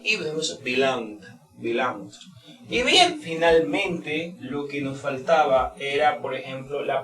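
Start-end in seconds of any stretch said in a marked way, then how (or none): 0.6-2.1 "belonged" with N and G joined; "belonged" carefully, NG running into the final stop. Shown as a demonstration. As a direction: model "belonged" slowly in two syllables. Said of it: "una pronunciación de una N G junta".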